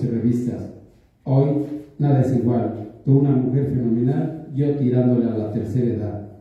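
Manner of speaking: measured poetry reading, line by line; poem recitation. Acted. Poet reads his love poem Crucigrama to listeners, measured recitation. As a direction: recite your own love poem, each line set apart.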